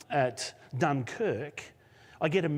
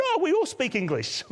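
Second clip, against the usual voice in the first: excited welcome; 11 semitones higher than usual. Retold or imitated. Bakers suddenly friendly.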